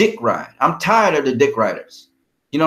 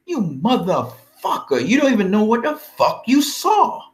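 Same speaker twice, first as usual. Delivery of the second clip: retorting to critics; 5 semitones higher than usual. Retold or imitated. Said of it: "I'm like".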